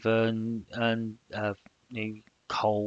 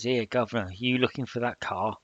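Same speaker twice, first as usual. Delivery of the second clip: lightly attempted rough London accent; badly faked Cockney; terrible Cockney accent. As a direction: have a half-hearted go at a Cockney street accent. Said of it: "That was a terrible accent".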